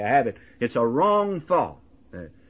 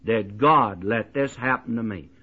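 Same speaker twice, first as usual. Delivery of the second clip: imitated anguished cry; 3 semitones lower than usual. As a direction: act out a mourner's protest, mildly. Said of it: "and cry out".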